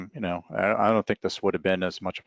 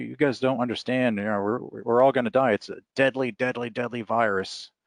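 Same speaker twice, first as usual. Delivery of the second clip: higher-pitched mock doom warning; retold frightened man; 5 semitones higher than usual. Frightened stranger warning of a deadly virus, mock alarm. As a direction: imitate his alarm, pressing each repeated word. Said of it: "he was really, really afraid".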